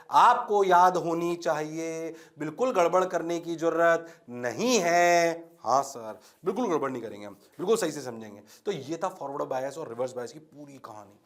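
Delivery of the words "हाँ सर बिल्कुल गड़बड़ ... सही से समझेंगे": lower, softer student reply; mock obedient student. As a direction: meekly promise like the class. Voicing obedient students answering him. (आज्ञाकारी छात्र की नकल)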